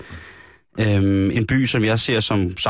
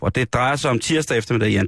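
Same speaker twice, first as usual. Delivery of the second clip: ordinary talk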